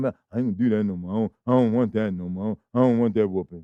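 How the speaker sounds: a hint of a whimpering child; imitating a scolded child. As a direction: play the kid begging not to be whipped. Child promising grandma after whooping.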